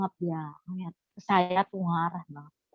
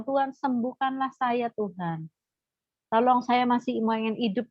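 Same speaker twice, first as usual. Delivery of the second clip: higher-pitched, drawn-out appeal to God; retold plea; 4 semitones higher than usual. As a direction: plead for healing, in a retold voice. (memohon kepada Tuhan)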